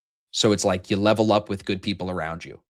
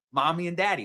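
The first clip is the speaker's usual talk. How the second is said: higher-pitched imitated Southern voice; Southern accent; 8 semitones higher than usual. Host imitating a Southern guy naming his parents, Southern accent. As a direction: put on a Southern lilt. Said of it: "when a Southern guy calls his daddy".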